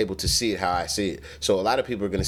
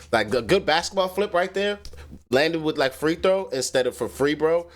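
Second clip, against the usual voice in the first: hyped up over the better line; excited; 7 semitones higher than usual. Real, not acted. Excited about a better rhyme.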